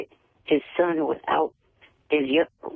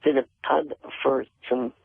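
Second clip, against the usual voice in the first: attempted British accent, barely there; faster than usual. Shown as a demonstration. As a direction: have a modest go at a British accent. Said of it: "let me hear you do a British accent".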